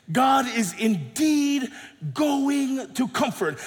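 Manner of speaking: slow, emphatic declaration; oracle's proclamation. Acted. Preacher voices the oracle to traumatized people, proclaiming. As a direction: proclaim it word by word, drawn out. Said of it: "the oracle here proclaims".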